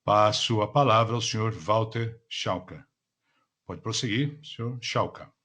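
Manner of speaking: polished call operator announcement; customer service voice. Acted. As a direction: read it like a conference call host. Conference call operator opening. (voz de atendimento ao cliente)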